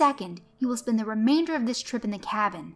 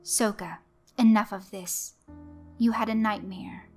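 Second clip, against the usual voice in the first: a touch of a stern mother scolding; firm, lightly voiced scolding; mother cutting off her daughter's fuss, mildly stern; 4 dB louder than usual. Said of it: "tones tended to lean more towards direct and stern".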